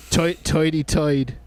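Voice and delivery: "toity toid" said with oy vowels, Brooklyn style; old New York accent. Retold or imitated. Explaining the bit to friends in a light New York accent. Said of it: "subway guy would say".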